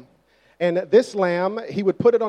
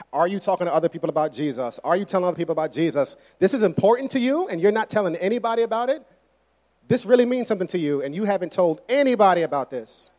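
1 mock nagging church; faster than usual. Strict church nagging members.

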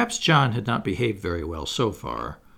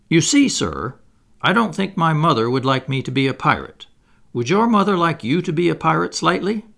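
put-on careful boy explaining himself, pitched up; prudent explanation; 6 semitones higher, 5 dB louder than usual. A narrator's reading. Boy excusing himself to the pirate captain, prudently. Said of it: "So Toodles explained prudently".

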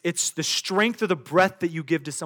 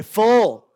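a loud single full with a falling tune; full said like you mean it; 6 dB louder than usual. Shown as a demonstration. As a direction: punch full, show you want it. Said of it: "Say it like you mean it".

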